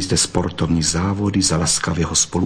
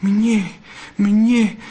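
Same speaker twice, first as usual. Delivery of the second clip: whispered sob; 12 semitones higher than usual. A narrator's reading. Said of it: "zašeptala a zaštkala".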